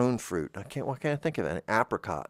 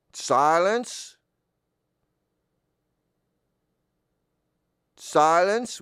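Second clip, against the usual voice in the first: high, loud, slow booming god voice; Bolubus; 8 semitones higher, 5 dB louder than usual. Acted. Planet god scolding intruders in his holy space, booming. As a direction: proclaim it like an offended deity. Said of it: "said the voice from the altar".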